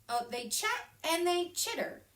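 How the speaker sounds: excited. A narrator's reading. Bird chatter voiced.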